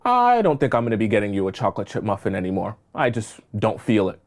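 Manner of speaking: low, soft, offhand brush-off; cold indifference. Acted. Coworker dismissing the new hire's question, low cold indifference. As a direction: shrug it off like it never mattered. Coworker coldly drops the routine.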